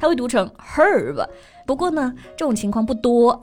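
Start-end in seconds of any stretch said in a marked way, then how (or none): 0.8-1.2 herb said with the H sounded, hurb; herb with a clear H at the start; British pronunciation. Shown as a demonstration. Host gives the British version, herb with a sounded H. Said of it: "这个H它有发音了".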